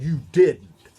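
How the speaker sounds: loud, startled You didn't; Adam can't believe what Eve did; shocked disbelief. Acted. Adam to Eve, hearing she ate the fruit, loud shocked disbelief. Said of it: "And Adam said".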